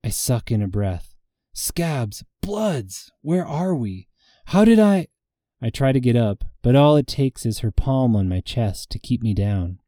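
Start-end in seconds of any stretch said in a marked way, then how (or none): 1.5-5.1 panicked confusion. Acted. Waking in panic, sucking breath.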